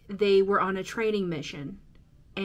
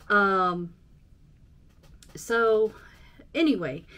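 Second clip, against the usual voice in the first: usual speaking voice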